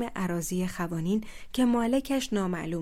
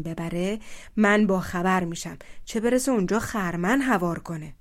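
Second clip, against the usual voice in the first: angry; 4 dB louder than usual. Acted. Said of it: "ترش رو و عبوس".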